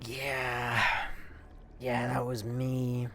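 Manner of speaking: slow, soft, drawn-out confession; sheepish admission. Retold or imitated. Driver owning up to a distraught woman, sheepish. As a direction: own up quietly, dragging the words out.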